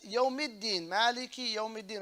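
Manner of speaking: "Maliki Yawmiddin" with a doubled d; "Yawmiddin" with the middle d briefly held; shadda on dal. Shown as a demonstration. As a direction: press the d in "Yawmiddin". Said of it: "on the dal".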